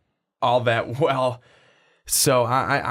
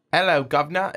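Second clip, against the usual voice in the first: imitated jokey English-Australian greeting; mock English-Australian accent; 4 semitones higher, faster than usual. Co-host quoting the host's greeting back, mock English-Australian accent. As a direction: echo a bad Australian accent with a dropped H. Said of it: "is Australian".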